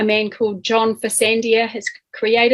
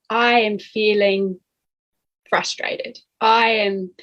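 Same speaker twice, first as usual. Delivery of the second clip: calm. Shown as a demonstration. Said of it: "you say it very calmly".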